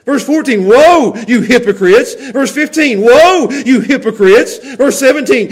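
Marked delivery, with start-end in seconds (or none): 0.6-2.1 harsh, strong voice. Retold or imitated. Preacher reads Jesus's woes to hypocrites, harsh and condemning. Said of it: "the harsh voice, the, the strong voice". 3.0-4.6 raised, slow denunciation; harsh, strong voice. Retold or imitated. Preacher reads Jesus's woes to hypocrites, harsh and condemning. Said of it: "the harsh voice, the, the strong voice".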